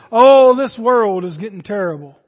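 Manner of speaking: mock griping, loud on the "oh"; complaining. Preacher mimics friends grumbling about the world, mock complaining. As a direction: lament it like a grumbler, lightly hammed up. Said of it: "you and I will start complaining".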